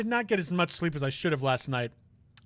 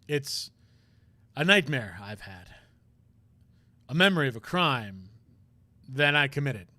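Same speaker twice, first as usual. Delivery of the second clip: troubled prosecutor; 3 semitones lower than usual. Acted. Voices troubled prosecutor character.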